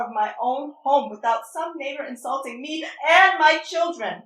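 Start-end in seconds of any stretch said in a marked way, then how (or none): 1.8-4.2 crying. Acted. Mother breaking down.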